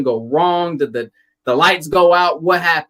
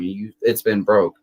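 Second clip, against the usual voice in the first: flat mocking echo; 4 semitones lower than usual. Mocking the excuse to the hospital lady, slow and pointed. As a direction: throw her excuse back, slow and lower. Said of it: "And I go".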